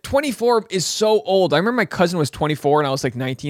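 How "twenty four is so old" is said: put-on high, slow teenage whine; mock teen horror at age; young self. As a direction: drag it out like a dramatic teen.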